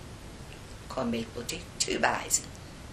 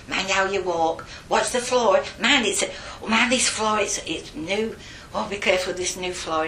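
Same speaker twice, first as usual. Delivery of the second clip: urgent warning; 5 semitones higher, 4 dB louder than usual. Retold or imitated. Acts herself warning children off floor.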